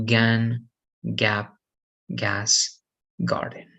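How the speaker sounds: "gun, gap, gas" starting with a hard "guh". Shown as a demonstration. Teacher giving examples of the corrected rule, hard G. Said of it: "Like G".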